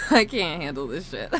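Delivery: helpless laughing through tears; crying laughing. Real, not acted. Streamer unable to handle the toggles, crying laughing. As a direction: talk while laughing to the point of tears. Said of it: "I'm crying laughing right now".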